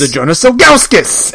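lightly hammed-up magic incantation; mock spell-casting. Joker mock-casting the spell for his friends, emphatic incantation. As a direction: call it out like a wizard's spell.

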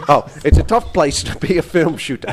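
put-on Aussie accent; Australian accent. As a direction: read it like an amateur Australian impression. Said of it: "how to do my Australian accent".

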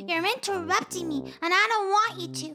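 mild annoyance. Acted. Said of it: "I was not very happy".

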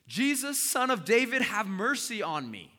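desperate high, loud cry over a crowd; yelling out loud. Acted. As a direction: cry out at full voice to be heard. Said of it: "he yells it loud".

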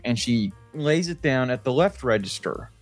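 usual speaking voice

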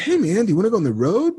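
high, quick friend voice; Kevin impression. Friend proposing a tour, imitated high and quick. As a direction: imitate a friend springing a new idea. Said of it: "The way you do his".

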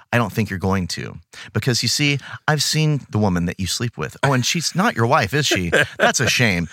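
low, understated blackmailer; lightly voiced menace, low and controlled; veiled threat. Matt Tracker blackmailing people who want to fire him, veiled threat. Acted blackmailer leaning on a victim.

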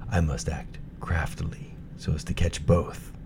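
whispered, sly wolf plotting; scheming whisper. Acted. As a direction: whisper the wolf's sly plan. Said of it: "The wolf thought to himself".

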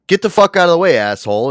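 loud mock snarl at someone in the way; rude New York yell. New Yorker yelling at a driver, a loud mock snarl. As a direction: bark it like an annoyed New Yorker. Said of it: "it's like".

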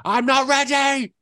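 a player dreading the boss fight; hammed-up terrified gamer; mock fear.

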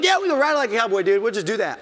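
a dad egging on his son; hyped agreement. Retold or imitated. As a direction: rush it out all pumped up.

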